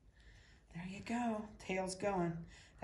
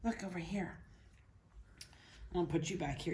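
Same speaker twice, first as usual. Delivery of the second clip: ordinary talk, nothing marked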